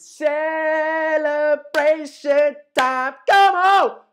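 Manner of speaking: big, high, loud celebratory cheer; ecstatic celebration. Real, not acted. Fan celebrating a player's exit, ecstatic cheer. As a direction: whoop it up like your club just won. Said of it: "I'm bloody ecstatic".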